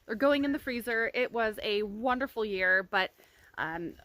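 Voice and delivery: talking through a retainer; slightly lisped retainer speech; wearing a retainer. Real, not acted. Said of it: "I'm not gonna be wearing this retainer anymore".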